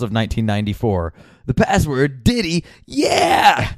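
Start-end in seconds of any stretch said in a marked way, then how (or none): 1.5-3.7 put-on high, drawn-out falsetto cry with a cracking teenage voice; pubescent Josh Wolf impression. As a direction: squeal it out like a pubescent boy. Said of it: "most pubescent Josh Wolf impression".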